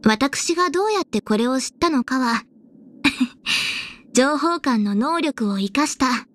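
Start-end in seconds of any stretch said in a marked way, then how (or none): 3.0-3.9 short, breath-only chuckle; small laugh. Acted. Officer hinting how she found this out, small laugh. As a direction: give a brief knowing chuckle.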